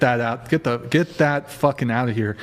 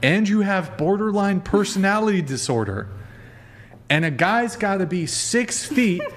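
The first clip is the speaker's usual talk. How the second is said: incredulous tallying; 7 semitones higher than usual. Real, not acted. Host challenging caller on her high standards, incredulous.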